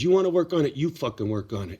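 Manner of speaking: retold angry snap. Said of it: "it gets me a little worked up".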